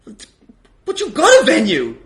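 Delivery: usual speaking voice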